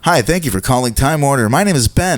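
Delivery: polished, lilting customer-service greeting; slick phone agent. Retold or imitated. Call centre worker answering for Time Warner, real slick. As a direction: put on a smooth commercial phone voice. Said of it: "like, real slick".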